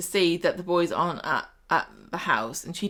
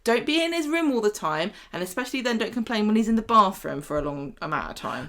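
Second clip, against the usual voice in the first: indignant telling-off. Acted.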